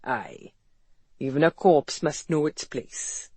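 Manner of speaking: lightly voiced amused Welshman; a hint of Welsh, amused and wry; amused Welsh accent. A narrator's reading. Employer teasing the doctor, lightly amused Welsh accent. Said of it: "amused male voice with a Welsh accent".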